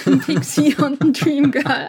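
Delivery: laughing through the words, pitch and volume rising; amused, laughing. Real, not acted. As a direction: break up while listing each word emphatically. Laughs while listing the trope words.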